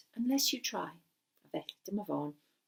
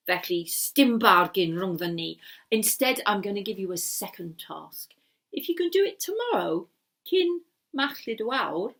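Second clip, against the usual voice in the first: the wizard seething over a broken deal; grudging wizard; 5 semitones lower than usual. Acted. Wizard setting Gareth a harder task, low and cross.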